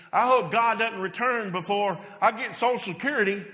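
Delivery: building from firm to loud mock pleading; from a steady list to a loud, rising plea; immature believer. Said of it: "here's one that's kinda immature".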